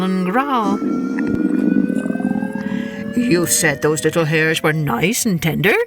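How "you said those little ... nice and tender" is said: lower, greedy coyote voice; low hungry Coyote. Acted.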